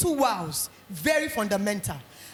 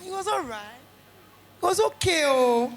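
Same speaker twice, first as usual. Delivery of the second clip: half-hearted shrug. Retold or imitated. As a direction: imitate a parent who is not really impressed. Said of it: "their shoulder like this for you".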